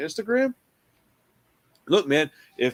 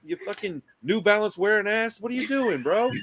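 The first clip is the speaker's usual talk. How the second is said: higher, mocking rant at a pest; mock irritated rant; 5 semitones higher than usual. Rock star mocking the fan who keeps showing up, in a higher, irritated voice. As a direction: sneer at the fan, pitched up.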